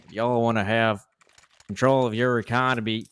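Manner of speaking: hammed-up gold-rush prospector accent; lightly put-on cowboy accent, mock ad read; mock Old West drawl. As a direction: play an Arizona, Texas gold-rush prospector. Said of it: "that was creepily on point".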